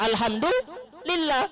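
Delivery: high, slow, drawn-out alhamdulillah; teasing a wife's resigned thanks; mock sigh of thanks. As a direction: stretch it high and long in resignation. Wife mocking husband again.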